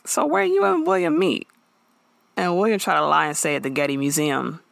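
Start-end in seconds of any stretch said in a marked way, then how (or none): 0.0-1.5 high sweet mock-innocent question; nosy Maya. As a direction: pitch up to play the drama-loving friend. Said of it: "She's like".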